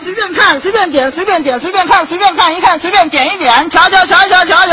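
high, pushy, chattering waiter voice; chatty waiter. Acted. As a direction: keep pestering him to order. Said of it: "你怎么那么贫呢".

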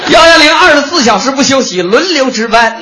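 commanding shout. Acted.

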